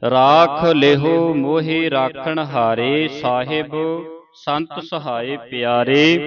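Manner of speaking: slow, measured verse with rests between phrases; drawn-out chant-like teaching read, falling at the close; slow scripture recitation. Shown as a demonstration. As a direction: recite reverently slowly, pausing at each phrase end. Teacher recites the whole verse slowly.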